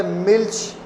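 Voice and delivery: मिल्च as milsh, ending in a hush after l; German Milch. Shown as a demonstration. Teacher reading the example word, sh after consonant. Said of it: "श बन जाता है".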